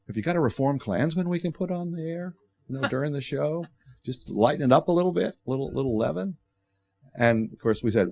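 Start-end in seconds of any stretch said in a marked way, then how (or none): 0.1-6.4 higher, lightly voiced talk-show host asking a favor; a hint of Oprah, pitched up and breezy; Oprah's voice. Oprah asking the producers for a Klansman, higher and bright. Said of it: "So she said".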